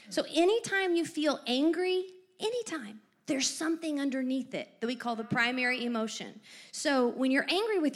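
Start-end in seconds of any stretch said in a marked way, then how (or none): 0.1-3.0 anytime lifted high, then repeated falling; stress on anytime. Shown as a demonstration. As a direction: drive home anytime. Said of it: "repeating for emphasis".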